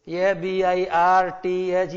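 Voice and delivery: each letter named slowly and clearly; spelling out letters. Shown as a demonstration. Teacher spelling a word out for children, slow and clear. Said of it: "एक बात ध्यान लगाना".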